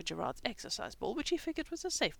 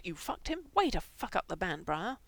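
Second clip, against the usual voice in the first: angry snap; 5 dB louder than usual. Acted. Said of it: "Frank snapped".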